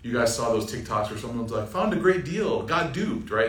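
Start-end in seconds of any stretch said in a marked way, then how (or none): 1.7-3.3 lightly voiced TikTok robot narrator; a hint of the flat automated text-to-speech lady. Mocking a TikTok scam video in the robot voice. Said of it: "In that lady's voice, the automated robot voice".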